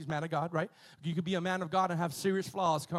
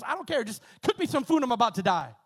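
desperate Esau; 5 semitones higher, 6 dB louder, faster than usual. Retold or imitated. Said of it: "He goes".

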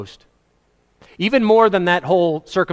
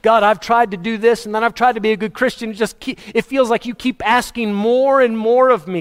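high, pleading complaint to God; pleading believer; 5 semitones higher than usual. Retold or imitated. Believer complaining to God, mildly pleading. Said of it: "You ever thought that about the Lord?".

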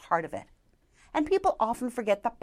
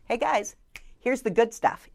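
teasing build-up; 2 semitones higher than usual. Shown as a demonstration. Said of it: "I practice what I speech".

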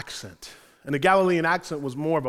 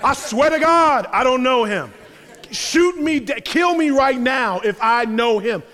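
high, loud, laughing oath; loud swearing denial; 6 semitones higher, 4 dB louder than usual. Retold or imitated. Peter swearing to the bystanders, high loud mock oath. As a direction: swear it up high like a guilty kid. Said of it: "He's like".

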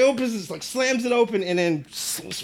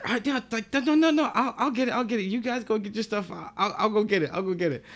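higher, hurried protest of no no no; flustered girl; 3 semitones higher than usual. Retold or imitated. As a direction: cover for him, flustered and rushing. Girl panicking to hide him.

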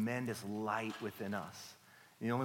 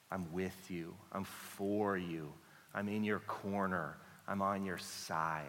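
God's tender affirmation; 3 semitones lower, 4 dB quieter than usual. Acted. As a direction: reassure gently, like a loving parent. Voicing God's affirming words.

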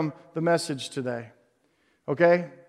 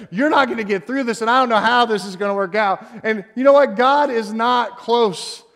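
a hint of a taunting devil, pushed a little louder; mock Satan yelling; 3 semitones higher, 4 dB louder than usual. Preacher voicing Satan screaming lies at the anxious, mild mock yell. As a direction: taunt them like Satan shouting from afar. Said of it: "he yells at us, he screams to us".

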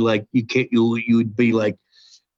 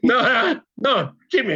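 emphatic high insistence; 10 semitones higher than usual. Real, not acted. Insisting to host mid-story.

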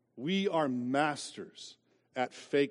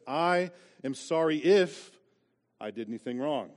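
fake apology. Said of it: "apologies like this".

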